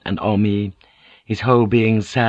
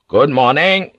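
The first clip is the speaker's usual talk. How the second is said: cheerful greeting, louder and higher; 5 semitones higher, 4 dB louder than usual. A narrator's reading. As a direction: greet them brightly, in a good mood. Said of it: "he said cheerfully".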